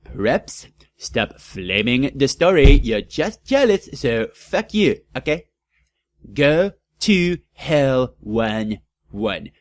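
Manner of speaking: mock rant. Author ranting at the preps, mock rant. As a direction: tell off the haters.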